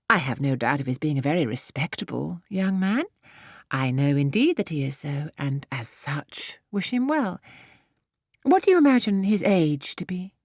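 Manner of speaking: lightly voiced haughty Emma. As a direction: look down on farmers with cool poise. Emma questions Harriet.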